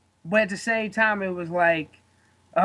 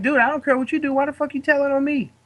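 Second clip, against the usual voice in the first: higher, exasperated "why are you snitching"; a fed-up, pitched-up gripe at the snitch; exasperated complaint; 6 semitones higher than usual. Retold or imitated. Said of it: "I'm just like".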